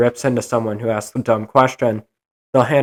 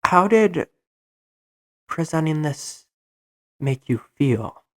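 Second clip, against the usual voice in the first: mocking, sugary, higher and slowing toward the end; teacher's pet; 4 semitones higher, 4 dB quieter, slower than usual. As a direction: lightly play the eager teacher's pet. Teacher's pet asks a presentation question.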